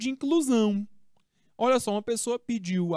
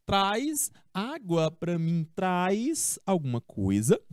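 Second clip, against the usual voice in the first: slow example; slower than usual. Shown as a demonstration. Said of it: "o verbo trazer".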